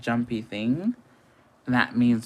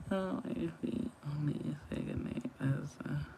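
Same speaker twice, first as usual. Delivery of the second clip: whisper; 4 semitones higher, 12 dB quieter than usual. Real, not acted. Reading a comment aloud.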